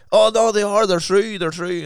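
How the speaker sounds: mock-excited manager insisting; insistent. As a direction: push it up, desperate to convince. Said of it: "And he goes".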